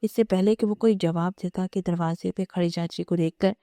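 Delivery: plain reading voice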